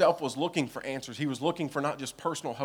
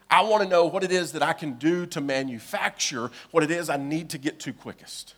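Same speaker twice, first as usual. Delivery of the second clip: demanding king; 7 dB louder than usual. Acted. Ahaz demanding another way.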